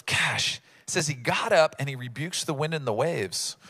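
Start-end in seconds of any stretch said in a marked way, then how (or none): 0.0-0.6 low, offhand mild exasperation; nonchalant. Acted. Jesus getting up to the storm, nonchalant. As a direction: toss it off casually. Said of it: "he just kinda nonchalantly".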